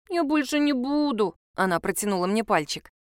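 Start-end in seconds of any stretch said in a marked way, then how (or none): 0.1-1.3 put-on child's promise. A narrator's reading.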